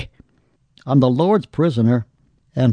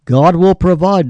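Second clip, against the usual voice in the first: God will provide, louder and higher, will stressed; loud proclamation; 4 semitones higher, 5 dB louder than usual. Acted. Preacher proclaims God's provision to the congregation, loud. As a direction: declare it to the back row. Promise repeated, quiet then loud.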